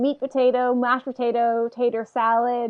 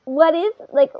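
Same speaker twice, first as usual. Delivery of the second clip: higher, drawn-out mock question; slow, pitched-up mocking voice; mocking, slightly annoyed; 5 semitones higher, slower than usual. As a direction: tease with a touch of annoyance. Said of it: "mocking voice a little bit".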